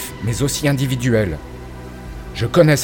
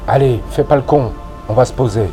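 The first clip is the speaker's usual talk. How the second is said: léger ton apaisant; ton compatissant. Acted. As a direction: Ridar apaise Marchaud avec compassion. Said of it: "sur un ton compatissant". (compassion légèrement jouée)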